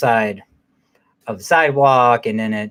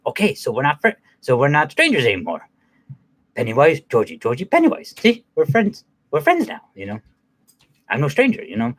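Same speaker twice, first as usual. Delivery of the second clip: playful clown. Retold or imitated. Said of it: "He's like".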